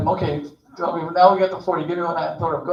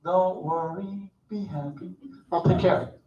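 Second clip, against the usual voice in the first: slow, softer, easy reassurance; calm reassuring God; 3 dB quieter, slower than usual. Retold or imitated. God reassures Moses, slow soft easygoing calm. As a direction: soothe him like an unbothered deity. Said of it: "you know what God says".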